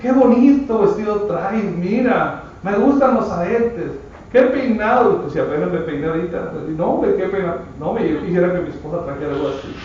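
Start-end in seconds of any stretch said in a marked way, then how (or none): 0.0-5.2 lightly voiced flatterer, a bit higher; mock flattery. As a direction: fake compliment, sugary and insincere. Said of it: "quiere decir que hablan también de usted mismo". (halago fingido, un poco más agudo)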